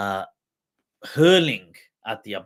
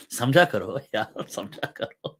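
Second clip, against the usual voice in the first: chuckling through the words; laughing; 3 semitones lower than usual. Real, not acted. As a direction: laugh while you say it. Laughing aside to listeners.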